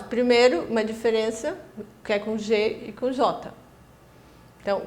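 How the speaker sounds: normal talking voice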